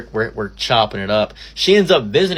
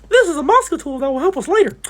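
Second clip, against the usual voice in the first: much higher sly villain voice; scheming villain; 3 dB louder than usual. Acted. Gloating to the audience over useful gossip, sly villain voice. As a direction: plot like a cartoon spy.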